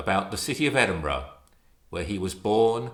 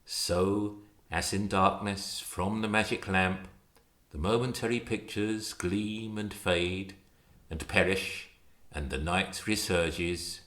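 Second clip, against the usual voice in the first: poem recital. Acted. Reader reciting Stevenson's poem to an audience, solemn poetry recital. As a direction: read it like a lament for lost youth.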